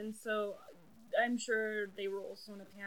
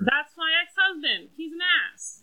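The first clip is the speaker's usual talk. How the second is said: mock bitter ex-wife; 7 semitones higher, 12 dB louder than usual. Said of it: "people that are like".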